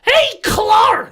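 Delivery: high, loud call across the room. Acted. Player hailing Clark across the bar with a high loud call. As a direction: shout for Clark to turn around.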